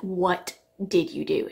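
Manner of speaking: slow, spaced-out questioning; drawn-out mock interrogation; retold accusation. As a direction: imitate grandma demanding an answer, word by word. Retelling grandma's accusing question.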